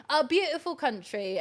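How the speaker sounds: put-on a light, playful British accent. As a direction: try on a British accent for fun. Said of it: "That's a British accent".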